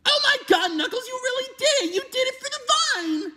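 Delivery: excited cheer. Acted. Cheering Knuckles' stair stunt.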